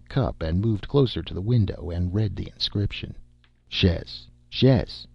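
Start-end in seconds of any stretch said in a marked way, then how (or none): 3.7-5.1 put-on German accent=13. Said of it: "he agreed".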